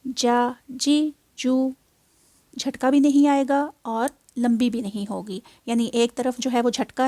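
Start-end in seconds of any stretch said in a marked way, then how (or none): 0.1-1.7 जा जी जू even, one beat each; correct way. Shown as a demonstration. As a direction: say जा जी जू short and smooth. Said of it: "ये पढ़ी जाएगी".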